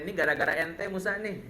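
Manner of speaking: grumbling Israelites. Retold or imitated. Israelites grumbling at Musa at the sea, mock whiny complaint. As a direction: nag Musa like fed-up travellers. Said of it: "Akhirnya mereka ngomel".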